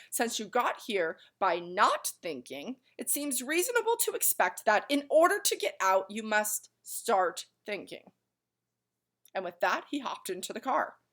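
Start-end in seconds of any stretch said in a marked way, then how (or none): 0.1-8.1 impatient. Acted. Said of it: "continued the watchdog impatiently".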